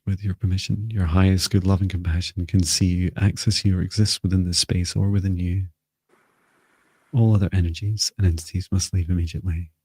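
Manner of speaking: measured, even-pitched guided meditation voice; guided invocation. Real, not acted. Healer calling in light and protection for the group, guided invocation. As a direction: lead them steadily through it, pausing between phrases.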